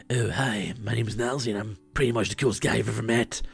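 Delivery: lightly voiced cocky cool guy; a hint of a smug self-assured guy; Nalzi voice. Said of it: "that's my Nalzi voice".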